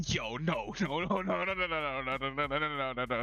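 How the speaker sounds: rising panicked string of no's; pleading disbelief at the board; despairing no no no. Real, not acted. Gamer watching his deck fail, panicked no's. Losing a card game, despairing.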